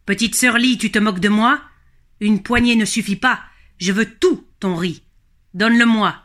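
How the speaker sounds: understated dragon's rage; angry dragon. Acted. Furious dragon demands all the rice, mildly angry. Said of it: "il se fâche de plus belle et il rugit".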